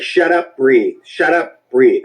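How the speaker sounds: firm self-command. Retold or imitated. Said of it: "you just gotta be like".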